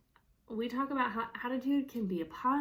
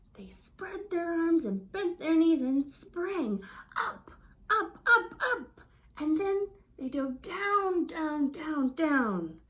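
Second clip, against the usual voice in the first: loud, climbing higher on each up, then dropping on down; rising then falling; 5 semitones higher, 6 dB louder, slower than usual. Shown as a demonstration. Teacher acting out the dive with the voice, loud and playful. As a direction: ride the voice up and down with the jump. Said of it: "So here we go up".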